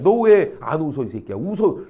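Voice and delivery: imitated parent ordering the child; mock bullying demand. Mother forcing her child to smile, mock demanding. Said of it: "이러고 강요하고 있는 거라는 거야".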